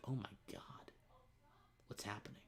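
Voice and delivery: breathless, awed whisper; stunned whisper. Retold or imitated. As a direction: whisper it like you can't believe your eyes. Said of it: "I'm getting a little emotional".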